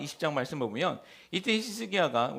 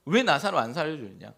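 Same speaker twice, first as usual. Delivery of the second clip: demanding reproach; 4 dB louder than usual. Retold or imitated. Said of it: "따지고 묻는 것입니다".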